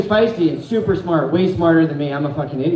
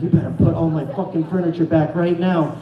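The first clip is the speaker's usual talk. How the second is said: angry threat. Retold or imitated. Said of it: "and she's like".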